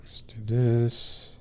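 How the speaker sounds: slow whispered psych-up to yourself; slow hushed let's-go. Real, not acted. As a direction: breathe it out slowly under your breath. Quiet self-pep before reading.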